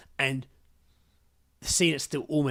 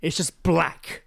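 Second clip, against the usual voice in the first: slow, louder, each word weighted; slow emphatic; 5 semitones higher, 6 dB louder, much slower than usual. Real, not acted. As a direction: lay it down slowly, heavy. Awed recounting of scene.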